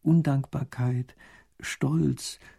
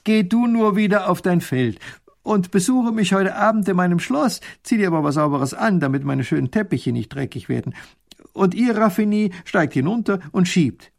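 commanding duke; 6 semitones higher, 5 dB louder than usual. Acted. Duke gives orders.

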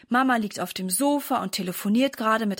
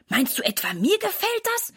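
grumpy; 10 semitones higher than usual. A narrator's reading. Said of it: "antwortet Sarah missmutig".

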